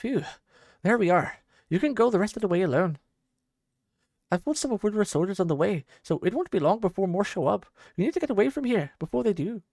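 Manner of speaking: put-on a touch of a scornful old warrior; gruff rescuer Hector. Old warrior mocking the captive he rescued, lightly voiced.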